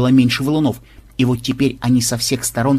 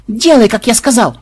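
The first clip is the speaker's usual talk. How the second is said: stern order; 9 semitones higher, 6 dB louder than usual. A narrator's reading. Grandfather orders granddaughter.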